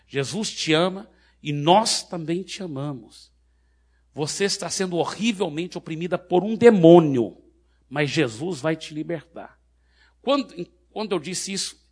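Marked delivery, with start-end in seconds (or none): 0.1-3.3 slow, projected declaration; loud proclamation. Retold or imitated. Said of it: "bem alto pra multidão poder ouvir". 4.1-9.6 forceful preaching declaration; loud proclamation. Retold or imitated. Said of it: "bem alto pra multidão poder ouvir".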